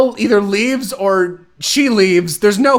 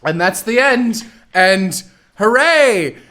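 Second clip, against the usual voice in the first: mock cheerful; 4 semitones higher, slower than usual. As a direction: wrap it up like a sarcastic happy ending. Voicing the show itself.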